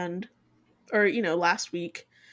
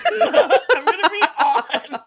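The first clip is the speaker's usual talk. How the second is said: hyped; 8 semitones higher, 7 dB louder, slower than usual. Retold or imitated. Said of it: "not turned on".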